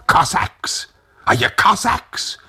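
high-pitched called question; calling out. A narrator's reading. Old Tag hails the soldiers at the window, high calling out. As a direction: call out to someone outside. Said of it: "and called out".

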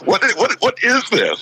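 high, stammering mock disbelief; retold bewilderment. Security guard baffled by the hug he witnessed, retold bewilderment. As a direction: play up the baffled stammer, pitched well up.

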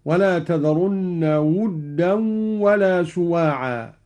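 ودا said "wuddan", with a short u after the w; slow recitation, round the first vowel of ودا to u; damma on the waw. Shown as a demonstration. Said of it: "بضم الواو هكذا".

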